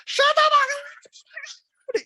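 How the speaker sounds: high whispered gasp of disbelief; high put-on whisper of amazement; mock whisper. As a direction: whisper it in shock, high and breathy. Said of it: "And Dorit's like".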